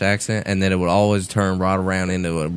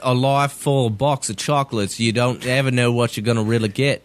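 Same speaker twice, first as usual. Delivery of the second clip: drawling Southern film-character imitation; Forrest Gump; 3 semitones higher than usual. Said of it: "British accent sounds like Forrest Gump".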